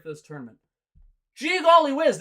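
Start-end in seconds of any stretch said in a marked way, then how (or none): 1.3-2.2 high, hammed-up naive "Gee golly whiz"; sarcastic gee-whiz, much higher; mocking voice. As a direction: play fake innocence for sarcasm. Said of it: "Sorry I keep doing this mocking voice".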